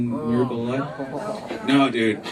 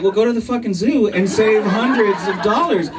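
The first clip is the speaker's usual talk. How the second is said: sarcastic retort; 7 semitones higher, 3 dB louder than usual. Retold or imitated.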